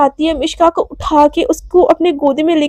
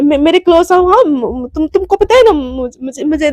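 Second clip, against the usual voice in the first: flustered stammer. Acted. Mishka flustered after kiss.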